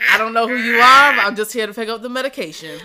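loud, laughing brush-off; laughing retort. Retold or imitated. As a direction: laugh it out while shutting them down.

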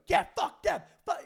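imitating audience shouts; crowd yell. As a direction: act out the crowd jeering.

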